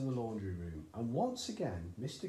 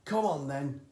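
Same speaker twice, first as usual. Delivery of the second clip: louder, eager call; eager cry; 4 semitones higher, 8 dB louder than usual. A narrator's reading. Father calling his son up, louder. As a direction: call the boy upstairs. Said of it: "cried Mister Killy Cranky".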